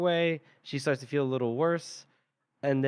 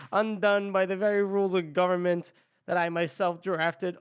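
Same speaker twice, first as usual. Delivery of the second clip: lightly mocking, sing-song; mild sarcasm; 5 semitones higher than usual. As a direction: dryly needle the lady. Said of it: "Yeah, very sarcastic".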